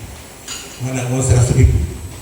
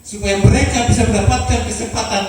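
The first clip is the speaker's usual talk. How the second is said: impassioned pledge; 7 semitones higher than usual. Real, not acted. Founder dedicates campus, climactic pledge.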